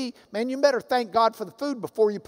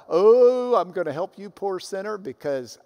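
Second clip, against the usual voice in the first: condescending; 4 semitones lower than usual. Retold or imitated. Preacher imitating a proud helper talking down to a sinner, smug. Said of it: "You start thinking more highly of yourself".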